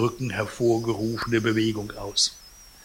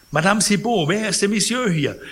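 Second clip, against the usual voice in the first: high, loud alarmed call; 9 semitones higher, 4 dB louder than usual. Acted. Startled patient calls the concierge, high alarmed cry. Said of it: "rief er".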